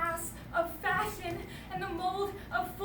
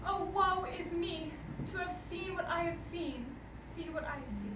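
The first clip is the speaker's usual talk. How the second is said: grieving lament; 3 dB quieter than usual. Acted. Lady mourning a noble mind o'erthrown, lament fading away. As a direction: let the woe sink away into quiet.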